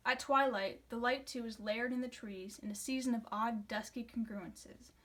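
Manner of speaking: steady, measured recital of a free verse poem; poem reading. Acted. Student reading Hirsch's poem for a class video, in a calm reciting voice. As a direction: read it like a poem, letting the lines drift.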